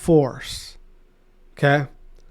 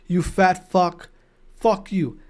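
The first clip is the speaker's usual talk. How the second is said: quiet retold insult; 5 dB quieter, slower than usual. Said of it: "that guy who said that to Sender".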